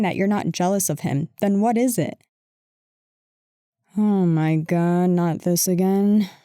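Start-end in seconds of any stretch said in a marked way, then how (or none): 4.0-6.3 exasperated. Acted. Exasperated at repeated accusation.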